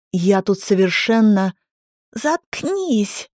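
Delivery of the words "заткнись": high sharp yell. A narrator's reading. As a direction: yell at her to shut up. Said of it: "заорала Ирина".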